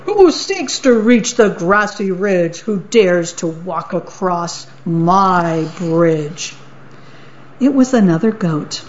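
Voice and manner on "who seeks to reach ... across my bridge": troll challenge. Acted. Troll challenges whoever crosses his bridge, calling out. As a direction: boom the challenge then drag it out.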